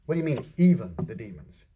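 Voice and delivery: understated querying echo of "even"; correcting the emphasis. Acted. Jesus correcting his disciples' excitement, querying "even" with mild reproof. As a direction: mildly challenge the word "even". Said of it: "Jesus essentially corrected that emphasis".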